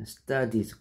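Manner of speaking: "studies" as stuh-deez; studies pronunciation. Shown as a demonstration. Teacher showing y changed to ies, "studies" said stuh-deez. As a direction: model "studies" with a long final "eez". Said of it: "studies라고 발음해요".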